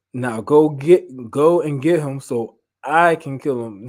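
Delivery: slow, deliberate command, hit hard; slow vengeful order. Acted. Saul orders Jonathan to fetch David, slow vengeful command. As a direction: spit out the order word by word, measured. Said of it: "That hatred grew to the point".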